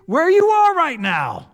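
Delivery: high, loud, slow hammed-up outraged mom; mock furious mother. Pastor acting Mary finding lost Jesus, hammed-up outrage. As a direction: play an astonished, scolding mother to the hilt. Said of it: "an astonishment of".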